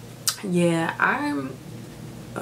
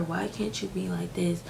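whispering the nagging question back; whispered quote; 9 dB quieter than usual. Retold or imitated. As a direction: hush it to a whisper, repeating the jab. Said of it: "and be like".

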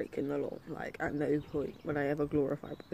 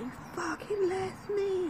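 high, wailing mock sob; hammed-up tearful complaint; mock crying. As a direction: whine it like a crying friend. Friend crying on phone.

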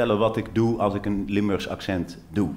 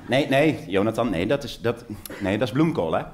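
patient mother. Retold or imitated. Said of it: "Zij deed dit".

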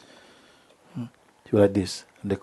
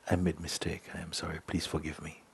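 sincere apology; 3 semitones lower, 13 dB quieter than usual. Shown as a demonstration. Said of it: "when you can say".

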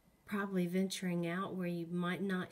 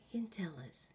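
talking to a ghost; 5 dB quieter, faster than usual. Real, not acted. Whispering to a ghost.

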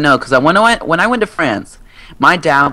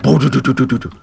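dryer noise; faster than usual. Retold or imitated. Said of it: "It sounds like it's about to explode".

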